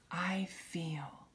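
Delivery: soft breathy "I feel"; quiet reminder phrase; whispered. Shown as a demonstration. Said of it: "don't forget to just say".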